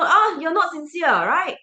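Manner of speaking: normal talking voice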